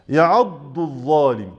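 يعض الظالم slowly, ض then ظ clearly; slow careful recitation. Shown as a demonstration. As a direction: stretch يعض الظالم keeping both letters apart. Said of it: "الاتنين ظاء".

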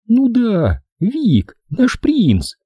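high, sneering mockery; mocking snort. A narrator's reading. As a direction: scoff at the boss. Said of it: "насмешливо фыркнула Бренди".

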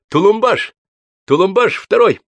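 the husband booming his name at a guest; booming introduction. Acted. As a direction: announce your name like a proclamation. Groom introduces himself again.

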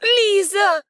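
high, loud call; shouting a name. A narrator's reading. Heroine shouts for the missing girl. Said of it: "кричит она снова".

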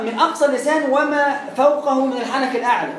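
ordinary delivery

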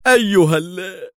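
high, loud outburst cut off mid-word; furious call, broken off; angry cry. A narrator's reading. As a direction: shout it angrily, dragging the words. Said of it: "وزميله يهتف في غضب".

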